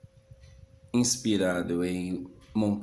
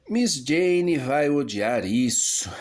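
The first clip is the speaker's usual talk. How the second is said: falando consigo; 6 semitones higher, 6 dB louder, slower than usual. Acted. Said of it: "falando consigo ainda".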